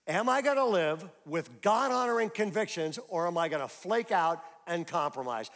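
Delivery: emphatic preacher repeat; forceful repeat. Acted. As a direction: press the question hard.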